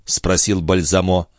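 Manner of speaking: plain reading voice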